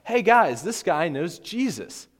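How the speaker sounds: put-on high, loud child voice calling out; mock little-girl announcement, slowing at the end; little girl tattling. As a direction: tell on him to the whole group. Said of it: "another little girl comes running out".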